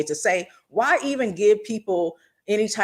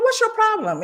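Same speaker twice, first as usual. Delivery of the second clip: mock angry challenge. Retold confrontation.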